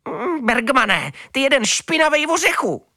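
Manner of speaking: high, loud, furious scolding; cat Amelína tearing into the dirty dog; angry high cat voice. A narrator's reading. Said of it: "nadávala uvnitř kočka Amelína".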